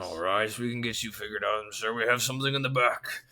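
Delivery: lightly voiced orc clerk, friendly and chatty; a hint of a busy clerk checking a list.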